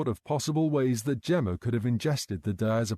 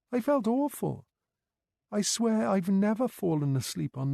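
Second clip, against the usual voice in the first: put-on higher-pitched young woman, worried and guilty; Gemma, anxious carer; 8 semitones higher than usual. A narrator's reading. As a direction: tell it like a nurse afraid for her job. Narrator voices Gemma.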